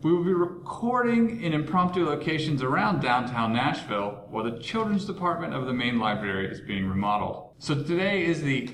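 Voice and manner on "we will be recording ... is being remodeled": echoing in an empty stadium bullpen; roomy echoing voice; hallway echo. Real, not acted. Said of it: "As you can hear from the echo".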